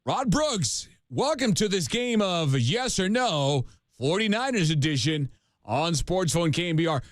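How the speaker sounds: upbeat game show host. Pretend. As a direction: announce it like a TV quiz host. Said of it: "game show host voice".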